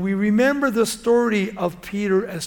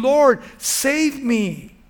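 slow, high, loud plea for rescue; crying out; 7 semitones higher, 8 dB louder, much slower than usual. Acted. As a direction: drag out the cry for help. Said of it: "he cried out".

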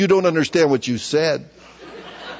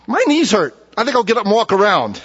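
higher, musing to himself; talking to himself at his desk; self-talk aloud; 4 semitones higher than usual. Retold or imitated. Pastor voicing his own thoughts aloud. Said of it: "I say this out loud".

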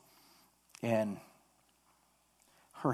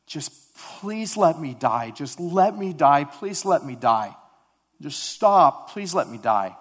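retold child's cry, louder, higher, drawn out; anguished pleading; 4 semitones higher, 7 dB louder, slower than usual. Preacher retells injured girl begging during wound washing, anguished pleading. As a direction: plead slowly and forcefully, imitating a suffering child. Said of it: "she's screaming and she's crying".

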